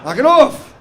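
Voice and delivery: high shouting to split up dogs; high, loud shooing yell; breaking up a dog fight. Retold or imitated. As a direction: yell like pulling dogs apart. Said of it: "like breaking up a dog fight".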